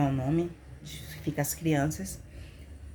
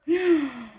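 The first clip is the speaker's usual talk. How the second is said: high reenacted gasp; sharp retold intake of shock; 7 semitones higher than usual. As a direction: gasp at terrible news. Reacting to grave news about son.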